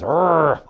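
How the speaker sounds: short mock-angry "arr" growl; mad growl. Shown as a demonstration. Teacher growls to act out being mad, mock-angry growl. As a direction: growl briefly in pretend anger.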